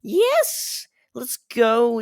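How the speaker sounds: high, loud joyful whoop in a put-on voice; triumphant mock cheer; excited cheer. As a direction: cheer like you just won. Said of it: "I was like".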